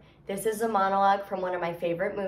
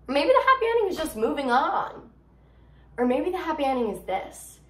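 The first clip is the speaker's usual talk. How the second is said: higher, lifted voice on a hopeful turn; hopeful monologue; 5 semitones higher, 3 dB louder than usual. Acted. Gigi to girls on happy endings without a guy, hopeful. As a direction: offer it up brightly as a new possibility.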